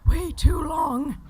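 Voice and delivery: slow, drawn-out shout; shouted joke. Real, not acted. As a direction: stretch it out in mock despair. Joking shout about years.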